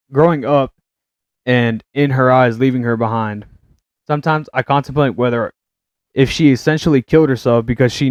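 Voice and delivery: steady read-aloud voice. Acted. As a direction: read it out like a written essay. Reading written text aloud.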